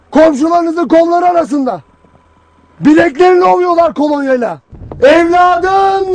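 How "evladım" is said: imitated wail, drawn-out cry; mock-grieving mother's drawn-out call. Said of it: "diye ağlıyor".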